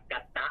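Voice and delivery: กะตะ as two short, separate syllables "ka-ta"; original Pali pronunciation. Shown as a demonstration. Teacher gives the Pali original, กะตะ in two short syllables. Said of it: "ออกเสียงว่า".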